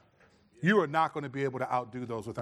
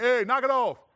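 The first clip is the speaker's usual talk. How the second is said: loud, much higher dad yell with a laugh; 9 semitones higher, 8 dB louder than usual. Retold or imitated. A babysitting dad yells at the kids, half-laughing. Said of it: "All dads babysit like that".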